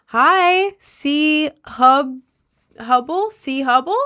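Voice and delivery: high, loud hi to a chatter; loud greeting. Real, not acted. Streamer greeting a chatter by name, loud and high. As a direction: call out the hello bright and big.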